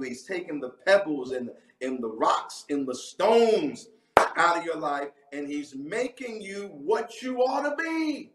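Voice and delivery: rising, stretched-out preacher cadence; fiery preaching. Acted. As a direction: preach it with full fire to the congregation. Preaching an online sermon.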